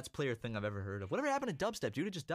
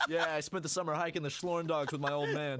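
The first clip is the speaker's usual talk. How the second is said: joking through laughter; barely contained laugh under the words; 3 semitones higher than usual. Pretend. Co-host inventing a hiking memory, laughing.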